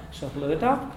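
"Sa hluda" with only a breathed h before the l; very soft ch. Shown as a demonstration. Teacher modelling Donegal "Sa hluda", very soft ch. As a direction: keep the start of "hluda" light, no rasp. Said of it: "very soft".

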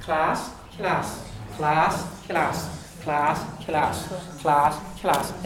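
class with contrasting K sounds; Irish and English class. Shown as a demonstration. Teacher contrasting trip and run. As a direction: alternate the two K sounds. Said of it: "the two K sounds".

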